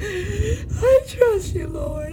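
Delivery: slow, tearful prayer; crying. Acted. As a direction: sob the words slowly.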